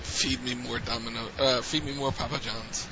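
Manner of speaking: flat, even, droning voice; monotone Ryback voice. Retold or imitated. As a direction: drone it with no inflection. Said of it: "Monotone voice".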